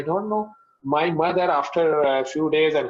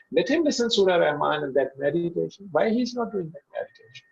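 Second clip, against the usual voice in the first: sarcastic. Retold or imitated. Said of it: "So I very sarcastically said".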